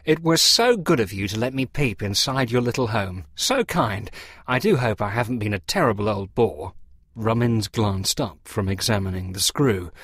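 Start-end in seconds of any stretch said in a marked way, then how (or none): 0.0-6.7 lightly voiced gushing, polite clergyman; a parson thanking his hosts profusely; Boggis the parson, effusive thanks. Parson thanking the men for a look inside, effusively polite.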